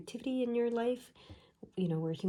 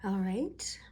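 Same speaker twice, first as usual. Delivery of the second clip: whisper. Real, not acted. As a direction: breathe it out in a whisper. Whispered opening to viewers.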